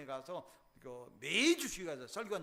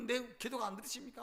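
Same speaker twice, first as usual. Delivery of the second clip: wailing prayer; 4 semitones higher than usual. Acted. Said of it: "통곡하고".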